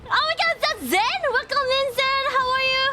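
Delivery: high, excited welcome under pressure; frantic greeting. Real, not acted. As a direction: greet them while still in a panic. Greets Zen while fleeing in game.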